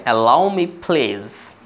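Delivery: Allow me please stretched out syllable by syllable; very slow demo. Shown as a demonstration. Teacher modelling Allow me please for students, very slowly. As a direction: drag each word out for the class. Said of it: "repeated model phrase".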